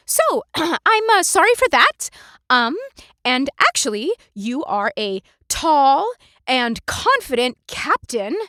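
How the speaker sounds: high, loud, halting compliments; a young woman flattering desperately; nervous flattery. Acted. Darmonda flatters the angry captain, nervous and high.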